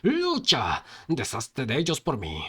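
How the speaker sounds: rousing battle order; fervent command. Acted. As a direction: order a minion into battle with fervor. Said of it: "pensó con fervor".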